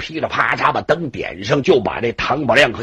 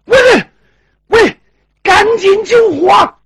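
rally everyone to put out the fire; urgent shouting; 7 dB louder than usual. Acted. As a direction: master yelling orders to his servants. Master calls men to fight fire.

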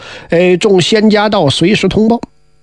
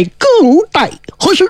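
high, soaring call; ringing summons; 9 semitones higher than usual. A narrator's reading. Chijingzi summons Ziya back to life, high and ringing. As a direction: fling the words upward like an incantation. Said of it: "叫了一声".

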